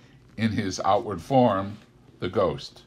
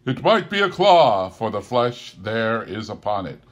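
sorrowful; 3 semitones higher, 8 dB louder than usual. Acted. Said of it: "the spirit's sorrowful reply".

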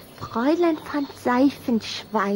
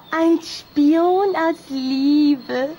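usual speaking voice

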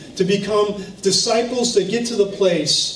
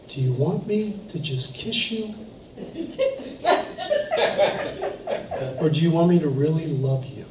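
soft, much quieter, lower, searching; a mentor's hushed, loving challenge; quiet pointed question; 4 semitones lower, 6 dB quieter than usual. Retold or imitated. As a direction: lay it on gently, almost a hush. Pastor's quiet loving rebuke.

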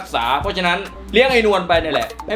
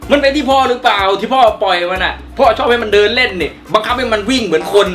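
loud, angry pushback at the father; heated argument; 4 semitones higher, 4 dB louder than usual. Acted. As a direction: shout back in your own defence. Son argues back at father. (ตะโกนเถียงพ่ออย่างโมโห)

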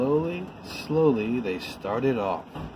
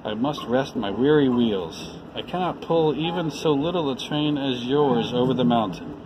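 put-on mild weary voice of an old engine; weary sighing. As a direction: sigh it out, worn to nothing. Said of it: "the rusty old engine sighed".

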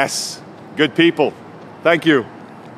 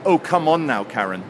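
exasperated. Retold or imitated. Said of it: "I gave her that".

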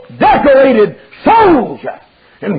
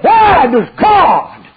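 mad outburst; 5 semitones higher, much slower than usual. Retold or imitated. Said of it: "He was mad".

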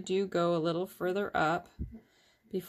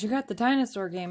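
lightly acted excitement, a bit livelier; retold eager exclamation from her son; excited son; 3 semitones higher, 4 dB louder than usual. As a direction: imitate an excited kid. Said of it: "he was all excited".

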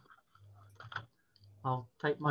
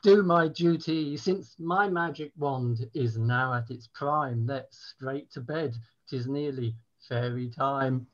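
mock-medieval poem; 3 semitones higher than usual. Poet resuming the bawdy poem after a prompt, mock-grandly. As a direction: take up the verse again with a flourish.

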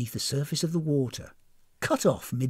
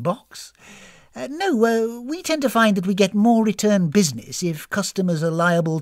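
hesitant, louder, earnest defence; flustered hostess; 3 semitones higher, 4 dB louder than usual. Acted. Hostess defending spa's reputation to guest, flustered. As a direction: justify it, stumbling over polite words.

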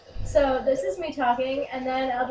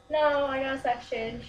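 put-on girl voice. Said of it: "my girl voice".

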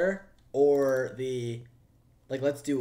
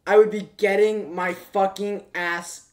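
higher and louder, slow emphatic; loud exclaiming; 6 semitones higher, 10 dB louder than usual. Real, not acted. Streamer loudly telling chat about Chris. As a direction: shout the point to chat.

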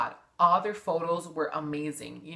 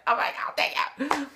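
breathy mock gratitude; 8 semitones higher than usual. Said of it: "And they're like".

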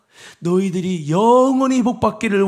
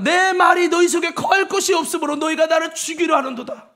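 proclaiming Jesus' words; 5 semitones higher than usual. Acted. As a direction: declare it like a prophet. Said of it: "주님이 말씀합니다".

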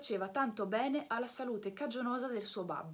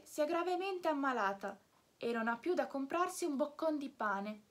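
a lightly higher, unhurried snail voice; phlegmatic snail; 3 semitones higher than usual. Acted. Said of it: "con la sua solita flemma". (lumaca flemmatica, voce calma e un po' acuta)

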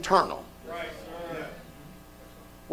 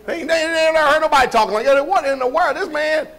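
shocked reaction; 8 semitones higher than usual. Retold or imitated. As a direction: play the stunned listener. Imitating shocked listeners.

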